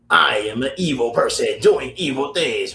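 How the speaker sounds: hammy evil villain announcing himself; cartoon villain voice. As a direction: ham up a cartoon bad guy.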